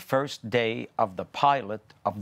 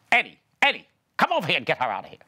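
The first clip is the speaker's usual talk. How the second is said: acted calling out; 3 semitones higher, much faster than usual. Co-star ad-libbing a call into the scene, urgent shout. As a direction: summon a helper urgently, rushing the order. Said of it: "and he says".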